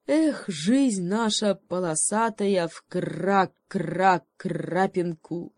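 slow, carefree croaking raven; reckless raven cry. Acted. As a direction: shout it devil-may-care from a treetop. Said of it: "бесшабашно крикнул". (бесшабашный крик ворона)

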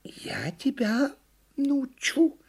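high, slow, deliberate promise; measured turtle resolve; firm turtle. A narrator's reading. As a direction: state it firmly as a little turtle, word by word. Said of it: "твёрдо сказала черепаха".

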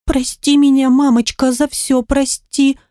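put-on a small child begging forgiveness, lightly trembling; a touch of a quivering child voice. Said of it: "дрожащим голосом произнесла".

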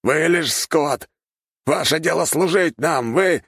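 slow, high scornful command; the arrogant noble berating his slaves; contemptuous master. A narrator's reading. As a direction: lord it over them like cattle. Noble continues contemptuous threats.

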